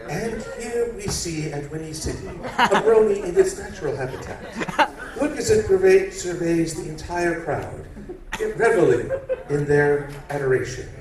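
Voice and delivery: hushed wildlife documentary narrator; nature documentary. Acted. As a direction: narrate like a nature show host. Nat Geo documentary narration.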